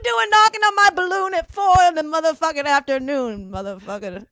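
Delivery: playful impression of an annoyed man woken up; irritated sleeper. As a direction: grumble at being woken, hammed up. Acting a rapper woken up angry.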